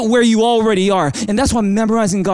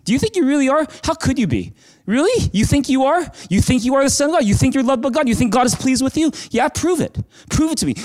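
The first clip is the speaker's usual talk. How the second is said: high-pitched, incredulous mocking questions; taunting; 4 semitones higher than usual. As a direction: needle him with doubt, voice pitched up. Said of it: "He's taunting him".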